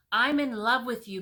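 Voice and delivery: loud lovesick king; declaring love. Acted. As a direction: blurt it out to her.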